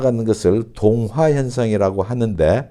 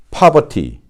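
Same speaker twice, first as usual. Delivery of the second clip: higher British "poverty" as "pah-vah-tee", crisp T; British model word "poverty", pitched up; British pronunciation; 5 semitones higher, much slower than usual. Shown as a demonstration. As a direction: say "poverty" with no R and a true T. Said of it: "영국식은 어떻게 발음되어질까요?".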